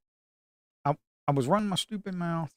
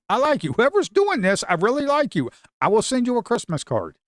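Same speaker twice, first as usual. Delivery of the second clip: higher, giddy promises to the buyer; gleeful pleading; 6 semitones higher than usual. Real, not acted. Trader sweet-talking whoever is buying, giddy high pleading. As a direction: beg and thank the buyer all at once.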